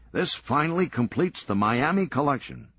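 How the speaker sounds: teasing Serge. Acted. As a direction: needle Lenny about his frozen-in-time room. Serge proud of his collection.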